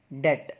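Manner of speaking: डेट as "det", with silent b; one short syllable डेट, like "det"; correct pronunciation. Shown as a demonstration. Teacher models the word for debt, correct pronunciation. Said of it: "इस word की सही pronunciation है".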